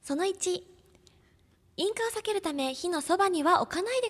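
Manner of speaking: polite beauty counter saleswoman; sweet shop-clerk politeness; cosmetics counter clerk voice. Acted. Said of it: "お化粧品のとこのお姉さんのイメージで".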